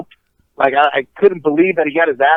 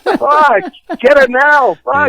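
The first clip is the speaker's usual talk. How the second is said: mock defiance; 9 semitones higher, much slower than usual. Repeating taunt laughing.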